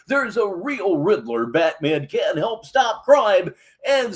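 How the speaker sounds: hammed-up TV announcer intro; announcer read. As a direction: sell the show opener like a hype host. Host's show announcer read.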